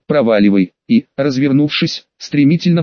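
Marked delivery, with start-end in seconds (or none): 0.1-0.7 low hissed проваливай, pushed hard. Acted. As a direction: hiss проваливай low and sharp. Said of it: "шиплю прямо в лицо".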